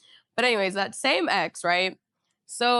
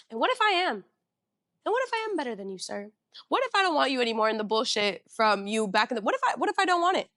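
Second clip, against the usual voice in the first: defiant talk-back; faster than usual. Real, not acted. Talking back to the guy.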